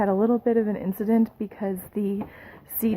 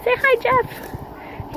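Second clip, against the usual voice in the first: sing-song; 3 dB louder, much slower than usual. Real, not acted. Prompting husband to greet camera.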